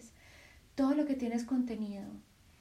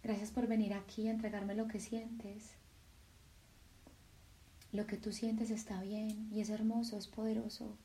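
softer, tender voice of the heart; the heart speaking; 7 dB quieter than usual. Acted. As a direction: speak as a loving heart comforting. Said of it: "tu corazón simplemente te dice". (el corazón habla, suave y tierno)

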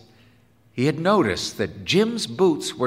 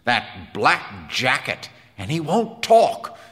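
louder, higher voice, baffled complaint; emphatic, raised-pitch disbelief; wondering Quinn; 7 semitones higher, 5 dB louder than usual. Acted. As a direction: grumble in amazement about a strange kid. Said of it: "said Quinn wonderingly".

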